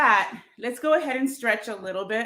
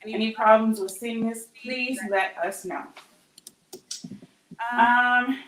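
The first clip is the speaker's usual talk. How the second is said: catching her breath after dancing; breathless, still winded. Real, not acted. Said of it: "sorry, I'm catching my breath".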